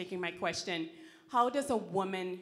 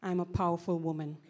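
two voice; 3 dB louder than usual. Shown as a demonstration. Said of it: "say in your two voice".

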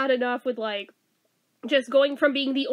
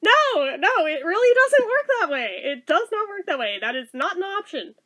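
firm mom; 4 semitones higher than usual. Retold or imitated. Mom refusing child's request, retold.

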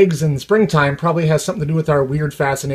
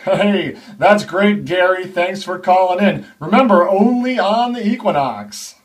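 smooth radio host; slower than usual. Acted. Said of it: "the D Js and the on-air personalities".

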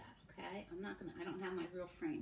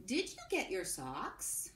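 slow dictation; slower than usual. Shown as a demonstration.

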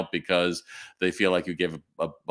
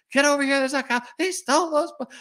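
yelling for a cop. Retold or imitated. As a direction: shout for the cop to come over. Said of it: "I'm yelling for a cop".

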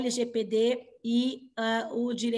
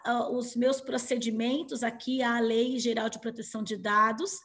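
hoarse, cracking voice; cracked voice. Real, not acted. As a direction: talk through a cracked, worn voice. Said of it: "Eu pareço uma voz de taquara rachada hoje".

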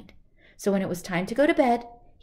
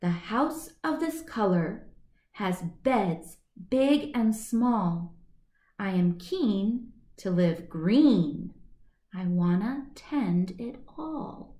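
reading a riddle; slower than usual. Shown as a demonstration. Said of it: "It says".

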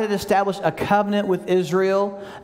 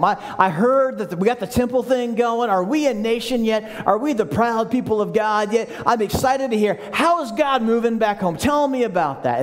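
rising eager voice, higher as it goes; eager questions; 4 semitones higher than usual. Retold or imitated. Nehemiah eagerly asking his brother about home, excited. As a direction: sound hungry for good news from home.

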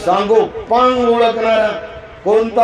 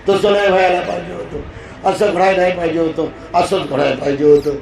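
anxious rumination; faster than usual. Retold or imitated. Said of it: "भूतकाळात जर तुम्ही जगलात".

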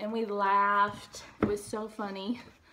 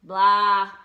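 a loud, grumpy blah; grumpy groan; 14 dB louder than usual. A narrator's reading. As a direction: groan from under the covers. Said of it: "said a voice from inside the house".

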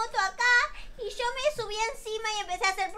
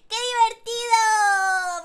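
slow, loud squeal of joy; gleeful, drawn out; delighted; 3 semitones higher, 7 dB louder, much slower than usual. Acted. Girl thrilled on the motorbike, loud slow delight.

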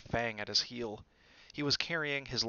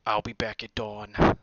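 nasty; 10 dB louder than usual. A narrator's reading. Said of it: "he added nastily".

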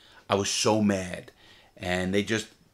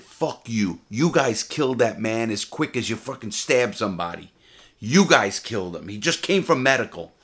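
retold angry retort; 2 semitones higher, 5 dB louder than usual. Retold confrontation with prison investigators.

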